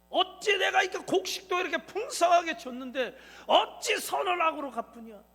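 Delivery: loud, furious rebuke, pitch up; stern scolding. Acted. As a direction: thunder at the kneeling brothers. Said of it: "엄하게 꾸짖는 거예요".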